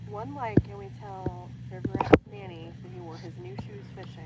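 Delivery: gleeful loud dare to the viewers; excited announcing. Real, not acted. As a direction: announce the dare like a game show host. Friend announcing a like goal.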